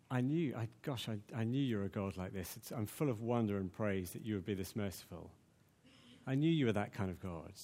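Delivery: soft, quiet wonder at God's mercy; awed praise. Shown as a demonstration. Preacher voicing Jonah's awed praise to God, soft wonder. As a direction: marvel at it, full of praise. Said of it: "you can say them two ways".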